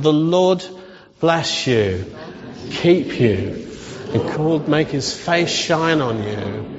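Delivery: slow blessing in short phrases with pauses; measured call-and-repeat benediction; leading a recitation. Acted. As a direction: lead them through it phrase by phrase. Leads congregation in saying the blessing.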